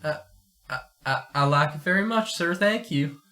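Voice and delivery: nervous youngster addressing a grand host; a timid, halting reply; shy stammer. Acted. Shy boy answers nervously.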